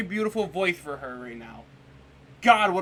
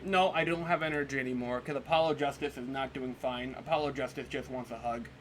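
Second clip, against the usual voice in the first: mock mopey; 4 semitones lower, 4 dB quieter than usual. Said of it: "look at Apollo's face and say".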